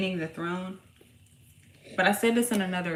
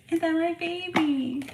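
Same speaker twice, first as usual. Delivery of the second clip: cooing question; 9 semitones higher, slower than usual. Real, not acted. Mother asking her baby son, gentle cooing question.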